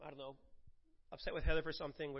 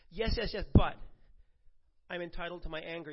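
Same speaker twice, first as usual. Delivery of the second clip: a hammed-up yes yes yes, then a quick defensive excuse; mock entitled whine; 6 dB louder than usual. Preacher mocking a believer who clings to anger, hammed-up whine. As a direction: imitate a believer clinging to his anger, brushing it off fast.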